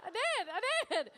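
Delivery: high, slow, laughing sorry; overly polite, laughing apology; meek apology. Retold or imitated. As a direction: apologise like a timid Canadian. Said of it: "I was like".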